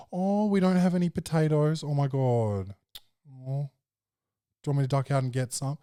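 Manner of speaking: hammed-up gasp of sympathy; mock dismay. Shown as a demonstration. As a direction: overplay the shock to match her feelings. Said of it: "you gotta appeal to the emotions".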